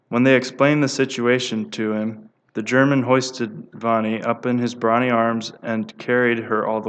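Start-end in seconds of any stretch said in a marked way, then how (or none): none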